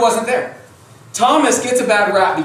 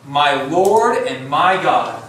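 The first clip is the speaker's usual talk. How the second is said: slow awed confession; 5 semitones lower, much slower than usual. Retold or imitated. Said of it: "Thomas answered him".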